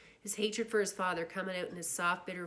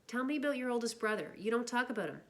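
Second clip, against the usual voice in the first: lightly raised curious tone; curious girl voice; 6 semitones higher than usual. Acted. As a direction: ask gently, a bit higher. Cherry asks about brother.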